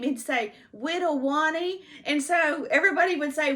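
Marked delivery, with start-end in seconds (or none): 0.7-1.8 "Whittle Wani" with W sounds in place of L and R, pitched up; high childlike "Whittle Wani"; toddler speech. Retold or imitated. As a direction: mimic a little boy saying "Whittle Wani". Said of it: "'cause he couldn't say his R's".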